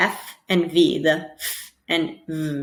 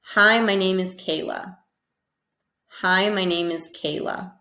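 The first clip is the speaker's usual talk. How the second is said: model sentence. Shown as a demonstration. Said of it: "I want you to say".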